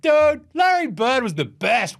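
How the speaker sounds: high, excited mock fan voice; gushing Celtics fan. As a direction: gush like a hammed-up sports fan. Acted excited Celtics fans.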